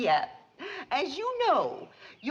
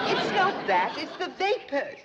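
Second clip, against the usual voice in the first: tearful; 3 semitones higher than usual. Acted. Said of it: "what's got you to bawling".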